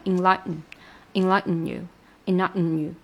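"enlighten" with swallowed T; nasal T. Shown as a demonstration. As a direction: stop the T, hum the n. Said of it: "enlighten也是的".

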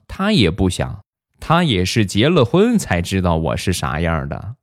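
lightly voiced teasing mom; amused teasing mother. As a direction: humour a naive son with playful condescension. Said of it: "地雷媳妇儿笑了笑".

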